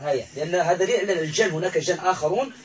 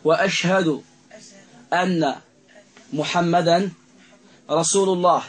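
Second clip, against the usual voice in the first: slow recitation; 8 dB louder than usual. Shown as a demonstration. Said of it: "طيب، هيا".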